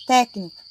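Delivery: "técnico" with a firm first syllable; stress on TÉC. Shown as a demonstration. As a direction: lean on "téc" in "técnico" as a classroom example. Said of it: "a sílaba tônica é a antepenúltima".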